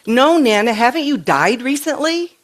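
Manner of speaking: mock the child's matter-of-fact question; three-year-old granddaughter. Granddaughter asking Nana about dying, light child voice. Retelling granddaughter's words to her.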